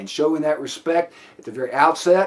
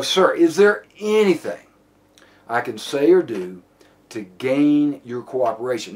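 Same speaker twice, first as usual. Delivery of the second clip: measured plea; 2 semitones lower than usual. Shown as a demonstration. Officer asking suspect to cooperate, measured plea. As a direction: plead calmly, pausing between phrases. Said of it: "it comes across almost as a plea".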